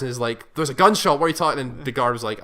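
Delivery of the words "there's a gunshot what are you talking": mild mock panic, raised then easing; retold panic. Retelling her talking to guards after a gunshot, mildly acted panic. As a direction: imitate someone urgently challenging a guard. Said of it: "panicking and is, like, talking to guards".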